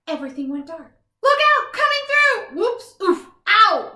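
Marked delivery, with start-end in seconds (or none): 1.2-3.9 higher, louder stumbling cries; panicked calls, then ouch; frantic yelps. Acted. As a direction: yelp while crashing through the dark. Stumbling through dark room.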